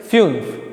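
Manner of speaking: फ्यून्फ with a "yu" glide; umlaut pronunciation. Shown as a demonstration. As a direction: model फ्यून्फ as "fyunf". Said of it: "उसकी यू करके आवाज़ आती है".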